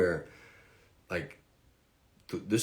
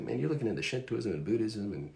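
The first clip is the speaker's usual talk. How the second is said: higher, quick southern accent, imitating a roommate; 4 semitones higher, faster than usual. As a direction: do a Georgia friend's southern accent, pitched up. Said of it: "hence the southern accent".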